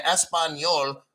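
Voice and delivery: careful native-style Spanish pronunciation; Spanish accent. Shown as a demonstration. Boasting to call-centre workers of a practiced accent, Spanish accent. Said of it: "Practice your accent like I did".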